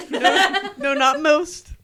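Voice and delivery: loud, high-pitched retort; emphatic mock correction. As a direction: burst in with an exclaimed objection. Quoted joke, emphatic self-correction.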